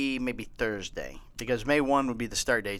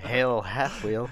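slow mock salute; 3 semitones lower, much slower than usual.

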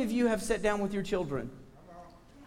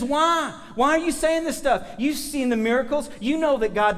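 higher, pointed prophet's challenge; changed confronting tone; 5 semitones higher than usual. Retold or imitated. Preacher voicing Isaiah rebuking Israel, confronting and higher. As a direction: press them hard with a raised pitch. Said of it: "His tone changes".

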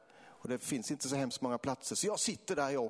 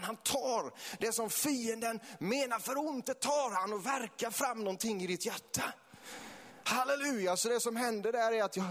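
passionate preaching; 6 semitones higher than usual. Real, not acted. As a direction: preach it with rising fervour. Preaches at full force. (eldig, högstämd väckelsepredikan)

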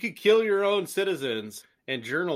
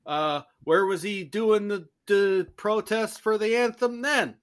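mock Chicago accent; 4 semitones higher than usual. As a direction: lightly play a Chicago fan complaining about the anthem protest. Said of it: "you chose the Chicago accent".

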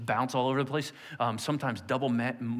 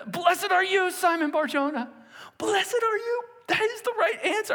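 delighted praise. Retold or imitated. Jesus praising Simon, pitched high with excitement. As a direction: cheer him on like a proud teacher.

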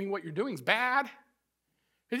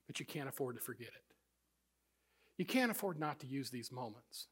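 quiet Moses; 10 semitones lower, 14 dB quieter than usual. Retold or imitated. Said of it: "And so Moses said".

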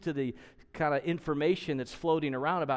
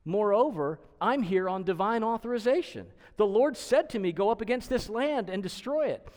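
lightly voiced conquering king, higher and louder; king of Assyria; 7 semitones higher, 4 dB louder than usual. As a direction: proclaim it as a king with divine orders. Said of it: "this is the king of Assyria speaking".

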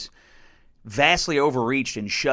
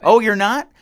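sarcastic; 9 semitones higher, 8 dB louder than usual. Real, not acted. Sarcastic retort to quote.

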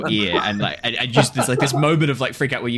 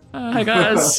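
high, loud, hammed-up awkward hello; comically plaintive call for attention; mock sheepish call; 12 semitones higher, 5 dB louder, much slower than usual. Game master imitating someone left walking along behind, mock sheepish. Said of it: "walking along being like".

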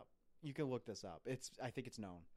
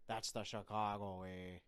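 put-on Sean Connery accent; 4 semitones lower, slower than usual. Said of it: "Another movie with a bad accent".

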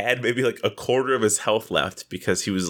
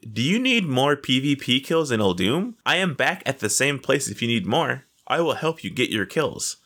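fake nice; 3 semitones higher than usual. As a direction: mock-friendly offer of help. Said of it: "trying to be so nice and so fake".

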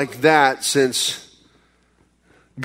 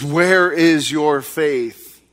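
gentle rebuke; much slower than usual. Acted. Jesus gently rebukes disciples.

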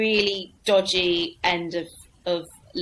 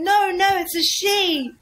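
much higher, slow; MC correcting; 9 semitones higher, 3 dB louder, slower than usual. Retold or imitated. MC tells the heckler the comic is a woman, high. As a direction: play the MC setting him straight. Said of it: "he went".

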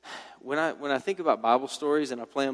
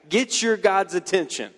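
louder and higher, egging them on like a coach; goading taunt; 4 semitones higher, 4 dB louder than usual. Retold or imitated. Elijah egging the prophets of Baal on, loud mock cheer. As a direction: pump them up to go big, mocking.

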